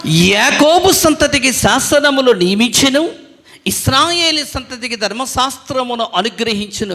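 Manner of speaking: slow, loud, every word drawn out; loud recitation. Shown as a demonstration. Pastor leading the children in reading the verse aloud. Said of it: "గట్టిగా చెప్పడు".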